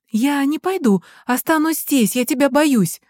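high, scared defiant shout; girl refusing her angry mother; frightened cry. Acted. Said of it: "крикнула девушка". (испуганный крик)

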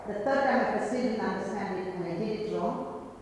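normal talking voice

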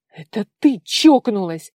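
loud, slow, hammered yell; unrestrained yell. A narrator's reading. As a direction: yell it at her without holding back. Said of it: "несдержанно проорал". (несдержанный крик)

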